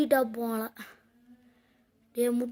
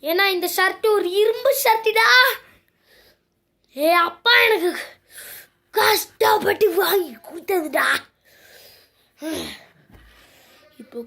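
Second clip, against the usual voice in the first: fast, louder threatening rant; angry threat; 2 semitones higher, 4 dB louder, faster than usual. Acted. Boy threatens friend over chips, angry rant. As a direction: rattle off the threat.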